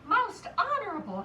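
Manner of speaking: mildly acted panting; a touch of breathlessness. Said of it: "he panted".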